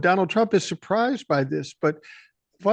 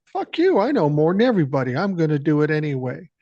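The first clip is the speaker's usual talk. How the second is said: mock defiant, pitched up then dropping; defiant retort. Imitating Trump brushing off his military advisers, defiant retort.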